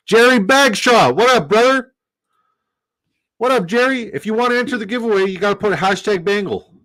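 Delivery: high, loud, excited shout-out; hype greeting. Real, not acted. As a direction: greet him like a hype man. Greeting a chatter, hyped.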